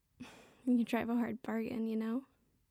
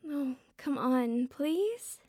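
drawn-out pleading; much slower than usual. Acted. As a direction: stretch it out, pleading harder.

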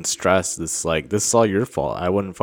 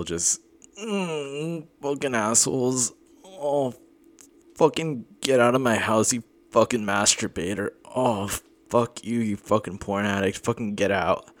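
angry outburst; 4 semitones higher than usual. Acted. Ordering the accuser out.

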